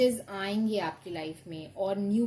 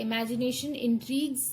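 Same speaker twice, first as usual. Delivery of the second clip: very slow, louder, word-by-word reading of the card text; 2 semitones higher, 4 dB louder, much slower than usual. Acted. Tarot reader reading the card's message to the viewer, slow and deliberate. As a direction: read it out like an oracle pronouncing. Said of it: "let's see इस पे क्या लिखा है".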